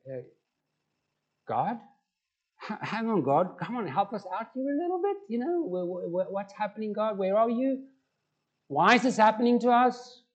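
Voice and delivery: "tragedy" retried with clearer sounds; imagined desperate prayer. Retold or imitated. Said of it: "I was like".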